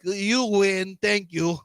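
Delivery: lightly put-on foreign accent; Borat. Beaten bluffer concedes at the door, Borat-style accent. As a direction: concede in mock-Russian English. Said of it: "like, uh, Borat, basically".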